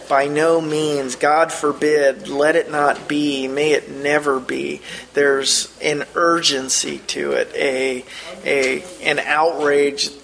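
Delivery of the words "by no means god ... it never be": BY NO MEANS, GOD FORBID in firm, measured beats; emphatic. Retold or imitated. Teacher stacking Paul's translated refusals for the class, emphatic. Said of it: "you get the emphatic".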